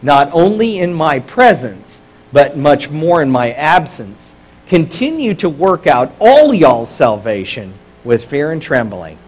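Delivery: slow, drawn-out Texan scripture reading; Texan twang. Shown as a demonstration. Pastor leading congregation reading Philippians, Texan twang. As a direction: read it aloud in a measured Texan twang. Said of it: "read this like a Texan. Put on your twang".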